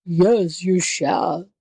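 mildly raging beast voice; enraged tiger. A narrator's reading. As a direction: overrule the jackal in a tiger's temper. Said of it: "in a rage".

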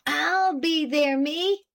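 lightly voiced alarmed French-Canadian farmhand; indignant French-Canadian accent. A narrator's reading. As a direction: protest your innocence in a French-Canadian accent, slow on the first words. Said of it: "cried Pete in indignant alarm".

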